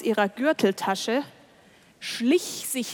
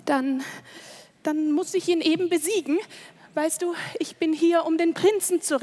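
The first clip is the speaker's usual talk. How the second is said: eager and determined; 6 semitones higher, faster than usual. Acted. Princess resolves to defeat wizard.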